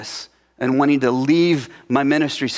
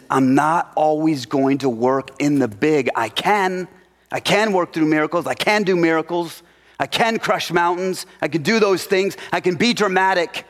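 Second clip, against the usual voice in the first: rising higher with each I can; mild building proclamation; 4 semitones higher than usual. Acted. Preacher voicing God boasting of miracles, rising. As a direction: build up the voice of power line by line. Voicing God's big power.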